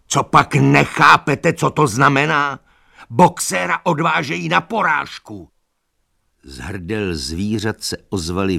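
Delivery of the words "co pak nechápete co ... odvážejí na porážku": anguished shout. Acted. Benjamin telling the animals Boxer goes to slaughter, anguished shout. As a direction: shout it at them in despair.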